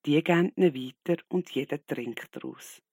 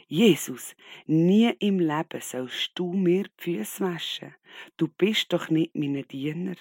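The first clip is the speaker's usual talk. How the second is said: empörter Protest; 4 semitones higher, 4 dB louder than usual. Acted. Petrus weist Jesus zurück.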